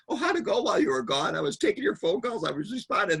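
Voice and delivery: mock-angry coworker snapping back; blowing up. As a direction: explode back at the boss. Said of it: "They just blow up".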